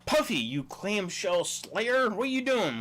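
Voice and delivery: high, hammed-up scolding call; mock yell at the fish. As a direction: call the fish out like a fed-up owner. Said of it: "Do I wanna come home and yell".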